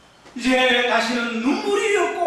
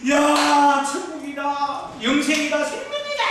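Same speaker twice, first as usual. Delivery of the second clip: ecstatic shout; 3 semitones higher than usual. Retold or imitated. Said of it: "그러면서 외치는 겁니다".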